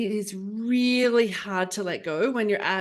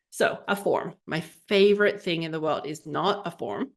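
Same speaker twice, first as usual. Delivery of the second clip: dry sarcasm, lower at the end; very sarcastic; 3 semitones lower than usual. Real, not acted. Telling listeners about hated paperwork, very sarcastic. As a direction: say it with pointed sarcasm. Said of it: "I'm being very sarcastic".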